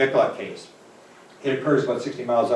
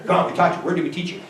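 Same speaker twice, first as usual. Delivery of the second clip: coaxing doctor; 7 semitones higher, 3 dB louder, faster than usual. Retold or imitated. Doctor coaxing a savant patient.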